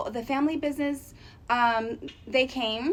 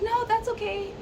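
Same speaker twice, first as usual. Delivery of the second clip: higher, light imitation of a shy woman politely saying no; soft-spoken decline; 10 semitones higher than usual. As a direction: decline softly, barely voiced, a touch imitated. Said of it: "And she's like".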